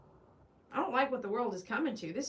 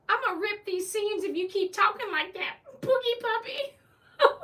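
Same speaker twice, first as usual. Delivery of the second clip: higher, laughing through a joking threat; laughing mock threat; 9 semitones higher than usual. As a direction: threaten playfully while cracking up.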